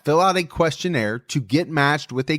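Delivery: upbeat sponsor read. Acted. Host pitching BetterHelp to listeners in an ad read. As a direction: sell it like a podcast ad.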